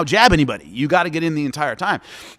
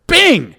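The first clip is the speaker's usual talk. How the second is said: loud punch bing; 10 semitones higher, 10 dB louder than usual. Retold or imitated. Punch sound in fight story.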